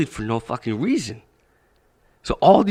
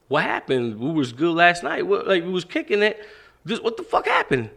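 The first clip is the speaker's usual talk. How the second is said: retold disbelief, pitch climbing steadily; alarmed questioning; 4 semitones higher than usual. Friend asking his beaten-up classmate what happened, alarmed. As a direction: build to a higher, baffled demand.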